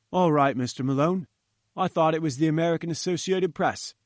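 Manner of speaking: a hint of a gruff guard at the gate; gatekeeper. Gatekeeper waves Malone's car through, lightly voiced guard.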